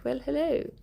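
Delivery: mock posh innocence in contrast to Cockney; lightly hammed-up posh voice; put-on posh accent. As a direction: play the refined lady, posh accent. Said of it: "there was this Cockney woman".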